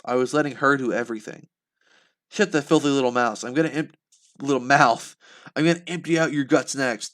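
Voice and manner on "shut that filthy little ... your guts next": screaming threat. Acted. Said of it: "the man screamed".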